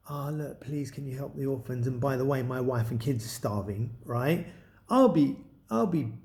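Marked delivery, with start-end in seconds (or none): 0.1-4.0 mock pleading. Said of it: "I would not be going".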